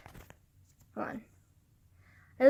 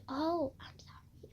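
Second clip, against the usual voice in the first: very soft, slow imitation of an apologetic friend; hushed, sheepish mock sorry; meek retold apology; 3 semitones higher, 13 dB quieter, slower than usual. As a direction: shrink back into a tiny apology.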